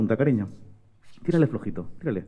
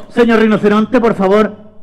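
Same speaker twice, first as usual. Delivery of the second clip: put-on polite little girl; 4 semitones higher than usual. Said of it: "María lo vio y le dijo".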